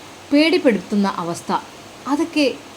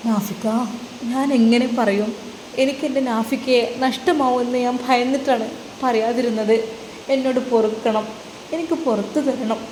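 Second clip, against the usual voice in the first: put-on pleading young wife; 3 semitones higher than usual. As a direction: beg him to forgive you.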